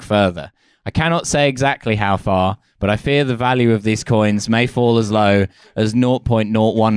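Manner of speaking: measured read-aloud of a pompous letter; deadpan formal reading; mock formal letter. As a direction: read it out like a solemn open letter.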